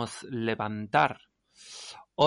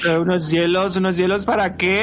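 outraged wife; 6 semitones higher, 6 dB louder, faster than usual. Acted.

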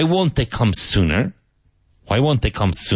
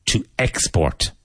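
"export" stressed on EX; to EX-port, careful model of "export"; stress on first syllable. Shown as a demonstration. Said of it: "emphasis on the first syllable".

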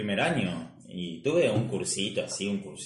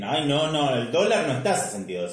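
higher, louder acted refusal to accept; mock denial; 3 semitones higher, 5 dB louder than usual. Mimicking someone denying the dollar rate, insistent mock protest. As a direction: protest in denial, raised and emphatic. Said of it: "tampoco podés negar todo".

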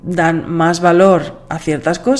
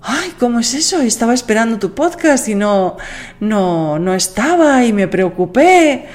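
higher, mildly worried questions; worried listener; 4 semitones higher than usual. Retold or imitated. Listener missing the Christmas Eve episode, lightly worried. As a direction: play a listener lightly fretting. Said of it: "dos personas me dijeron".

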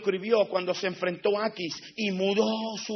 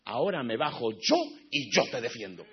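gentle voice of God; 4 semitones lower than usual. Retold or imitated. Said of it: "le dijo Dios".

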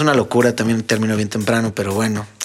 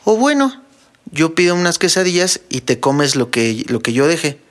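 wife's reply; 3 semitones higher than usual. Retold or imitated. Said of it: "Me dice".

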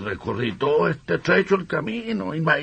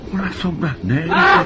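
frightened shout; 2 semitones higher than usual. Acted. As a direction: cry out in terror. Frightened shouts at the devil's carts. (gritos de miedo)

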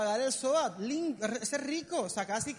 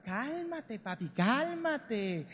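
soothing; much slower than usual. Acted. Soothing a money-anxious young man.

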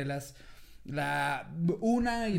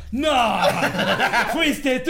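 louder, shameless retort thrown back at her; cynical comeback; 4 semitones higher, 8 dB louder, much slower than usual. Retold or imitated. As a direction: fire the question right back cheekily. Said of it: "bien cínico le digo".

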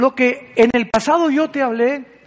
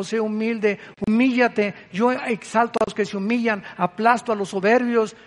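voz de Dios tierna. Acted. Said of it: "es Dios hablándote".

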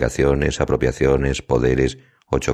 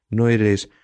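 sobbing; 9 semitones higher than usual. A narrator's reading. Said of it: "solloza con la vista baja".

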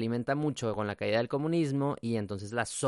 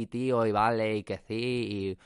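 put-on Spain Spanish accent; 3 dB louder, slower than usual. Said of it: "ya estoy hablando así".

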